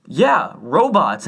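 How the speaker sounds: very slow, drawn-out answer; slow drawl. Retold or imitated. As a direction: stretch it out flatly. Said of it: "And he goes".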